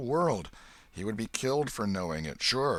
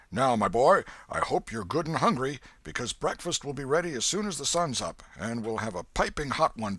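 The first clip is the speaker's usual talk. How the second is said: put-on louder, hearty old man offering breakfast; hearty old Welshman; 5 semitones higher, 5 dB louder than usual. A narrator's reading. Old Welshman to the hungry boy, hearty and loud. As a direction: boom out a fatherly welcome.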